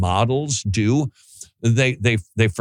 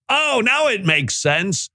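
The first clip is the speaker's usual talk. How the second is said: higher, slow dawning oh of understanding; realizing bystander; 10 semitones higher than usual. Retold or imitated. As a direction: let it click as you say it. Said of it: "you'd go".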